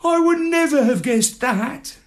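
high squawky parrot sarcasm. A narrator's reading. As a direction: play the parrot, dry and mocking.

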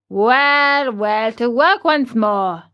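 a touch of forced cheer; lightly voiced carpenter. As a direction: shrug it off and get back to work. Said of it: "laughing and scratching his wig".

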